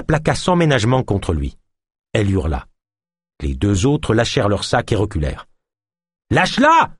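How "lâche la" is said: shrill high yelp, loud; yelped order. Acted. Ganesh yelps at the hostage-taker to release her, high yelp. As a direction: yelp it out in alarm. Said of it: "glapit Ganesh".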